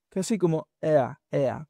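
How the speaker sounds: "ea" glided fast; quick ea glide. Shown as a demonstration. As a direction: slide "ea" quickly. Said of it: "pero rápido". ("ea" rápido)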